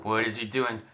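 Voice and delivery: lightly voiced low, slow onlooker; worried onlooker. Imagined whiskey purist watches the host, lightly voiced worried onlooker.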